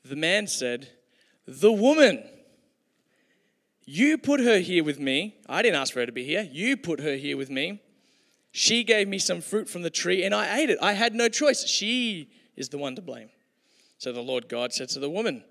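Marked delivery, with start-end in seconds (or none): 1.5-13.3 loud, higher, defensive pointing of the finger; indignant blaming. Acted. Man accusing God and the woman, loud and indignant. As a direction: throw all the blame on her.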